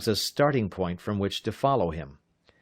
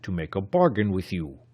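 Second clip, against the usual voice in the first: casual. A narrator's reading. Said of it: "he replied casually".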